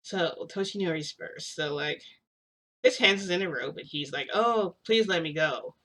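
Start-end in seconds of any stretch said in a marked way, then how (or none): 4.3-5.7 slow, wooden begging that nobody would believe; unconvincing plea. Retold or imitated. Toshinori pleading to be released, slow and unconvincing. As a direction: plead like a bad actor reading a line. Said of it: "it doesn't even sound believable".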